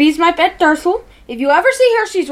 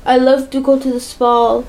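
put-on Polish accent; 5 semitones lower than usual. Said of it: "pump up my Polish accent".

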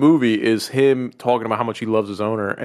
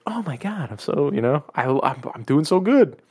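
excited dog voice; 4 semitones higher than usual. Retold or imitated.

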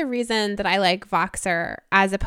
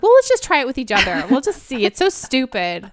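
dismissive; 4 semitones higher, 4 dB louder than usual. Retold or imitated. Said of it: "we were like".

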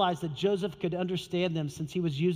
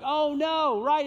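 dismayed gasp; 7 semitones higher, 4 dB louder, slower than usual. Retold or imitated. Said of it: "everybody's like".

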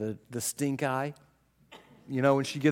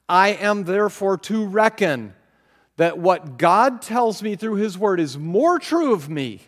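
preaching scripture; 5 semitones higher, 6 dB louder than usual. Acted. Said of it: "Paul says".

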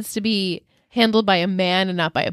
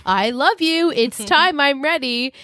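higher, earnest mock love declaration; mock heartfelt plea; 5 semitones higher than usual. Mocking the couple's repeated love confession, sappy. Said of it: "one party says".

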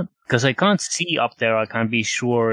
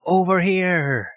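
holding back a shout; 7 semitones higher, slower than usual. Acted. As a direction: call out but keep it hushed. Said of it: "I'm trying not to yell too loudly".

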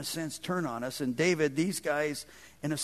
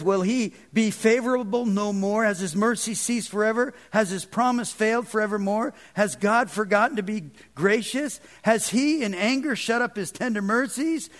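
raised, higher preacher's rendering of a plea; imitated cry to the Lord; retold crying out; 4 semitones higher, 5 dB louder than usual. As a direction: voice the psalmist's urgent questions to God. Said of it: "he cries to the Lord".

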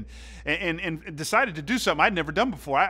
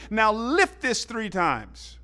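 slow, mildly raised coach command; a mock loud order, drawn out; 5 semitones higher, 3 dB louder, slower than usual. Coach ordering the kid in front of everybody, slow mock loud. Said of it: "He says loud in front of everybody".

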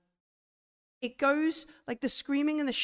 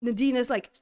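ordinary talk, nothing marked

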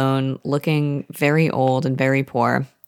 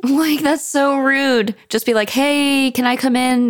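laughing mock voice; 11 semitones higher than usual. Mock retelling of the dying scene.

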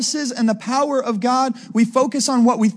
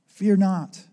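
understated gentle reassurance; loving, gracious call; 2 semitones lower than usual. Acted. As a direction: say FEAR NOT as mild comfort. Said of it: "it's this loving, gracious call to his people".

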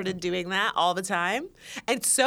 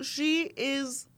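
1 bouge voice; 4 semitones higher, 3 dB quieter than usual. Shown as a demonstration. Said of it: "my bouge voice".

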